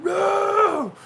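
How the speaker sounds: high, loud sharp no; yelled no. Retold or imitated. Dad yelling at the boys, high loud shout. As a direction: yell it at the kids.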